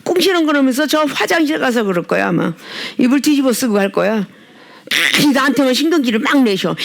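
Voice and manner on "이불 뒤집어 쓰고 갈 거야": ordinary talk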